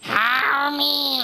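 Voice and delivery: crying demon plea; demonic layered voice. Pretend. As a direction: wail like a trapped demon.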